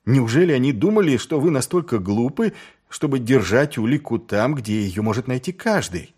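high-pitched, incredulous questioning. Acted. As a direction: ask it quickly at first, in earnest disbelief. Carrot outraged, in high voice.

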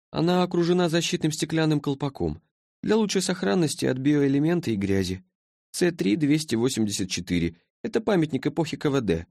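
sleepy being from the future, puzzled; languid creature. A narrator's reading. Creature's voice in story.

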